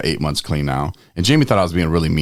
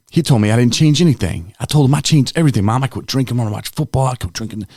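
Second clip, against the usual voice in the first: indignant; 5 semitones higher than usual. Retold or imitated. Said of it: "I was like".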